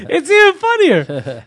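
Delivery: can barely get it out for laughing; laughing through words. Real, not acted. Comic telling his friend the story, laughing helplessly.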